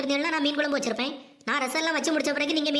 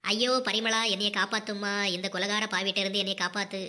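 pleading mother-in-law; 6 semitones lower than usual. Acted. Mother-in-law begs Parimala to save her, pleading. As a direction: plead to be saved.

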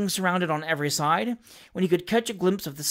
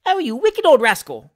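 loud, higher mocking heckle; jeering cry; 6 semitones higher, 8 dB louder than usual. A narrator's reading. Heckler in the crowd taunting Pickwick, loud jeering cry. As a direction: jeer at the old man from the crowd. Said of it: "cried one voice".

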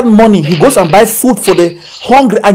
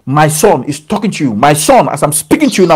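voice of God; 5 semitones lower than usual. Acted. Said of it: "the Lord is saying".

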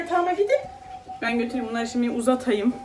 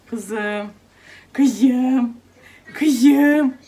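rising, louder call of her name; 6 dB louder, much slower than usual. Real, not acted. Calling baby louder each time. (kızını gittikçe yükselen sesle çağırma)

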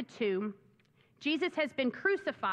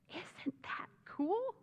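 delighted wonder; 7 semitones higher, 7 dB quieter, slower than usual. Real, not acted. Preacher marvels again.

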